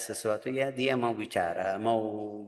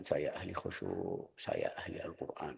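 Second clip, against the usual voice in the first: mock boast; 8 semitones lower, 12 dB quieter than usual. Mocking a show-off pious reciter.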